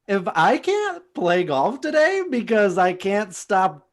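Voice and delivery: put-on Valley Girl. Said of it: "you are a Valley Girl".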